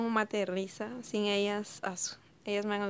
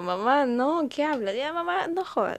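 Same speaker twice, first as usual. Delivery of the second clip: hija fastidiada; 6 semitones higher, 5 dB louder than usual. Retold or imitated. Hija fastidiada con la mamá.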